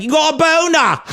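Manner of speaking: high nasal-blocked mock voice of a kid; mock stuffed-up schoolboy shout; blocked-nose voice. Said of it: "his nose was blocked".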